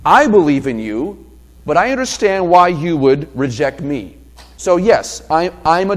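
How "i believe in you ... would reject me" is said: humble woman's voice. Pretend. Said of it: "So she would have known this".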